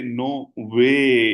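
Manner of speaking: "नो वे" with "वे" drawn out and swooping; emphasis on वे. Shown as a demonstration. Teacher showing the italic word, "वे" emphasized and stretched. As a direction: stretch "वे" after a short "नो". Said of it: "थोड़ा सा emphasise इस पे करना है".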